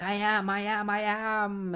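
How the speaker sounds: a hint of a lost speedster muttering; dazed clone.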